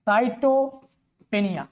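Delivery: pancytopenia split into syllables, each drawn out very slowly. Shown as a demonstration. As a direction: spell out pancytopenia syllable by syllable, like teaching a child. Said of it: "syllable ভাগ করে দিচ্ছি আস্তে আস্তে ছোটবেলার মতো".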